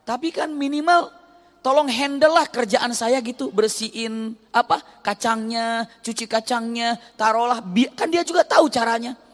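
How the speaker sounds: high, loud exasperated wife; exasperated wife griping about chores; indignant complaint. Retold or imitated. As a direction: push it up with rising frustration. Wife's complaint voiced with rising indignation.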